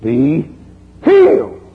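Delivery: preacher's loud "Be healed"; commanding healing shout. Retold or imitated. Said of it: "Thank you, great Holy Ghost".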